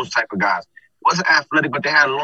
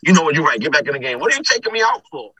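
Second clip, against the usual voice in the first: coach quote; 2 semitones higher, faster than usual. Retold or imitated. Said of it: "He was like".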